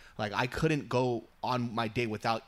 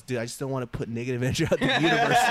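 imitating spiritual friend; 6 dB louder, faster than usual. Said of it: "He goes".

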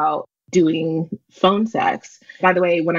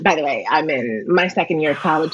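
sultry phone operator. Pretend. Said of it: "Can you do a little for us".

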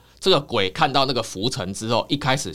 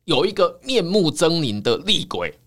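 rising suspense; 9 semitones higher than usual. A narrator's reading. Building suspense in ghost story.

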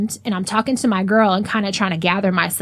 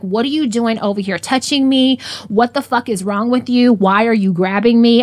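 higher, mildly raised, indignant questions; retold loud confrontation; 3 semitones higher, 4 dB louder than usual. Woman retelling confronting the man who grabbed her, raised voice. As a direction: fire off retold questions so others can hear. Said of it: "I'm saying it loud enough".

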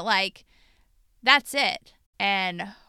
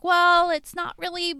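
mocking husband; 5 semitones higher than usual. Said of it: "he was diminishing it".

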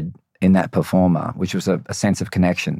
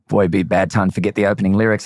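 inner voice; faster than usual. Retold or imitated. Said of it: "This little voice in my head goes".

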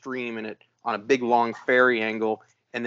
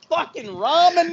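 high-pitched exasperated cry; retold cry of disgust; exasperated outburst; 3 dB louder than usual. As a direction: curse the noodles in raised, strained pitch.

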